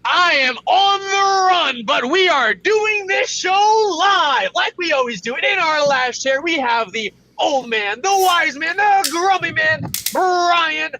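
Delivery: loud, fast morning show announcer; radio host. Acted. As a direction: hype up the show like a DJ. Introducing co-hosts on show.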